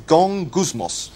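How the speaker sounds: gongusmos said slowly and carefully, stress on gong; Greek word spoken slowly. Shown as a demonstration. Teaching the congregation the Greek, slowly pronouncing gongusmos. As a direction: spell out gongusmos syllable by syllable. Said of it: "That's the word".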